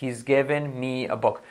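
"given" as "geven", slowly. Shown as a demonstration. Teacher repeats the model, slow with E-like "given". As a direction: say "given" with the I near an E. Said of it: "como si fuera una e".

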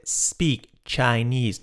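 "speak" with a long I and a clear S, said slowly. Shown as a demonstration. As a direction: stretch "speak Chinese" out. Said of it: "Con I y con la S". ("speak" con I larga y S clara, despacio)

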